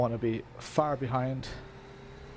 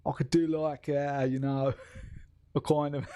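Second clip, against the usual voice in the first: tentative mock English accent; attempted English accent; 3 semitones higher than usual. Shown as a demonstration. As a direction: try out an English accent, breaking into a laugh. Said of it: "I could do an English accent".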